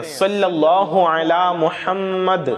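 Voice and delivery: slow, drawn-out recitation of a blessing; slow devotional chant; devout recitation. Shown as a demonstration. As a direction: recite it slowly and reverently. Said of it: "یا پھر آپ اتنا بھی پڑھ سکتے ہیں".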